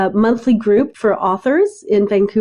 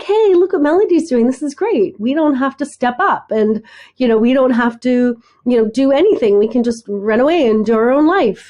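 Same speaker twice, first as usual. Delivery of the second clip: mock family voice; 2 semitones higher than usual. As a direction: brush it off like the family did. Family voiced as carefree, dismissive.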